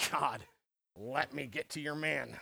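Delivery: low, slow, sinister devilish murmur, menacing. A speaker telling the story of Job acts out Satan addressing God: Satan impersonation. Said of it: "That's my Satan impersonation".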